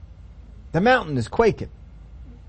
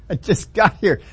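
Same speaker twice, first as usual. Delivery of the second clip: slower, chuckling through it; laughing repeat. Acted. Preacher repeating Moses' line, chuckling slowly. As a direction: savour the joke with a laugh.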